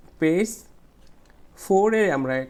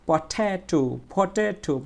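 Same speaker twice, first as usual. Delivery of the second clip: "পটেটো" with টে raised and stretched; middle syllable stressed; 4 semitones higher, much slower than usual. Shown as a demonstration. Teacher drilling stress for students, long raised টে. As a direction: lean on the টে in "পটেটো". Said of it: "মাঝখানেরটা কী হবে? ট্রেচ".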